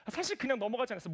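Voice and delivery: usual speaking voice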